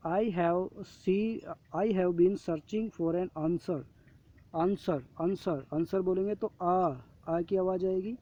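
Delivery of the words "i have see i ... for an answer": slow reading aloud. Shown as a demonstration. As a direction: read the rule very slowly, word by word. Reading example sentence. (धीरे-धीरे पढ़कर सुनाना)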